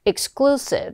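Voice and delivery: exclusive stressed on CLU, pitch lifted; second-syllable stress. Shown as a demonstration. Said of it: "이음절 강세도 꼭 넣을 것". (exclusive의 둘째 음절에 강세)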